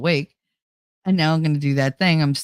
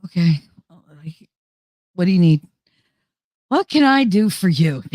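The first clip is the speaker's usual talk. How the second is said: forced helpful; 4 dB louder than usual. Shown as a demonstration. To a friend who needs her, forced cheer. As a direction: chirp it like a customer service smile. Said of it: "when I say it like that".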